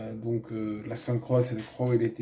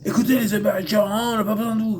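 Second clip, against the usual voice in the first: much higher, louder and fast, haughty brush-off; snooty white guard; 9 semitones higher, 5 dB louder, much faster than usual. Pretend. White guard telling the Americans to get lost, haughty and loud. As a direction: sneer at the Americans, quick and shrill-toned. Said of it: "où il fait".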